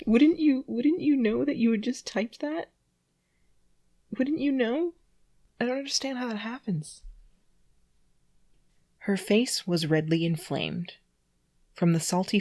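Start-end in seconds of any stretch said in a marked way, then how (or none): 0.1-7.0 high, amused, incredulous; laughing disbelief. Real, not acted. Reader baffled by the typo, laughing and incredulous. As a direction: laugh while asking.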